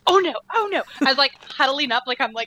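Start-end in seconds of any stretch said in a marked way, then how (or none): 0.1-0.8 higher, louder anxious "oh no"; dread. Retold or imitated. Watching the fall in the cinema, anxious dread. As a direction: gasp out oh no as it comes.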